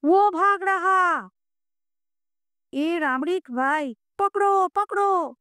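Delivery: guard yelling after a runaway; shouting watchmen. A narrator's reading. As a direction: yell in a Hindustani watchman's voice, slowly. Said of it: "কে যেন চেঁচিয়ে বলে".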